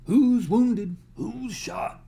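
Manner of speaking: loud, high shouts into the night; calling out. Acted. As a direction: call across the camp. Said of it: "calling out".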